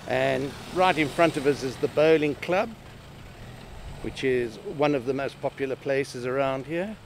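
speaking through a covid mask; slightly muffled mask voice. Real, not acted. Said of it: "if I sound a bit muffled, it's because I've got my mask on".

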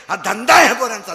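loud denouncing. Real, not acted. Preacher denouncing to crowd.

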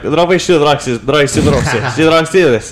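very slow mock Russian gibberish; fake Russian. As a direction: put on a fake Russian accent, drawn out. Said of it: "pretending to speak Russian".

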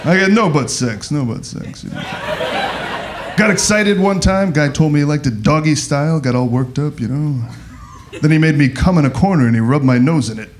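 stand-up character impression with jittery interjections; Rodney Dangerfield. Comic greets Austin in his favorite character, impression. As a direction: toss out one-liners as a borrowed comic persona. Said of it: "This is gay Rodney Dangerfield".

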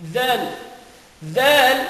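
Zal with the tongue between the teeth, voiced; voiced th for Arabic Zal; Arabic dhal. Shown as a demonstration. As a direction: buzz Zal through the teeth. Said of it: "yung dila mo, inilalagay mo".

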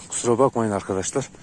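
trembling voice. Real, not acted. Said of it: "konuşurken biraz sesim titriyor".

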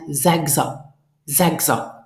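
"sechser" said as zeg-za, no final n; joined, N dropped. Shown as a demonstration. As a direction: model "sechser" as one joined unit. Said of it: "here we pronounce the sechs, uh, together".

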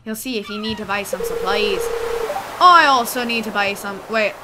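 pirate shopkeeper patter; salty pirate seller voice; pirate accent. Acted. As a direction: invite them in like an old pirate. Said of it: "give him a pirate accent now".

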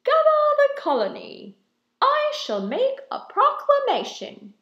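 high, loud, booming royal command; heroic regal voice. Acted. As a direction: proclaim it like a warrior king. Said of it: "he said in a heroic, regal voice".

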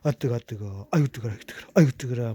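talking through hot food; words round a hot mouthful; mouth full of hot food. Real, not acted. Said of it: "못 먹겠지". (뜨거운 음식 문 채로)

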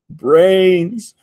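hungry horde moaning out; zombie moan. A narrator's reading. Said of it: "moaned the zombies".

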